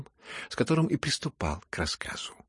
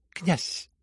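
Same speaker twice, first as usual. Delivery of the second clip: sharp address; 7 semitones higher than usual. A narrator's reading. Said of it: "резко и неожиданно обратилась".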